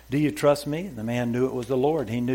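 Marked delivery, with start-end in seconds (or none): 0.1-0.9 louder, raised divine voice asking. Acted. The Lord's voice asks the hanging man, raised and louder. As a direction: ask it as a booming inner voice. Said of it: "It seemed so loud".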